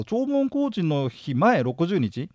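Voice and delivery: 弔問工事の日前六十日 read out slowly, word by word; slow, deliberate. Shown as a demonstration. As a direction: spell out each word slowly. (ゆっくり区切って読み上げる)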